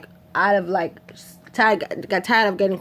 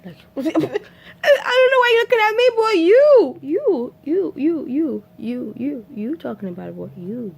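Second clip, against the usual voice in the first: laughing through the words; high laughing voice; 7 semitones higher than usual. Real, not acted. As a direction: crack up while talking. Laughing while retelling.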